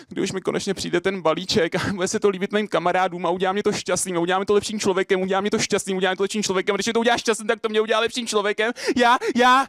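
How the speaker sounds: high, racing recitation speeding up; breathless slam build. Acted. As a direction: race through it in circles, then cry out the last words. Performs slam poem on stage.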